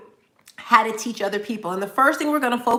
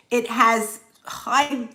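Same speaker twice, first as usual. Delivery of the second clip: slowed by a brain freeze; stalling through a brain freeze; much slower than usual. Real, not acted. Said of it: "I'm getting a brain freeze".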